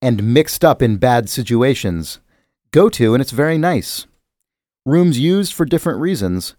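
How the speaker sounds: reciting a sonnet. Shown as a demonstration. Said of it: "I'm gonna read these sonnets now".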